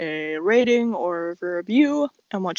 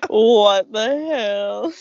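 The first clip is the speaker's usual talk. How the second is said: disgusted disbelief; 4 dB louder, much slower than usual. Real, not acted. Reacting to gross story.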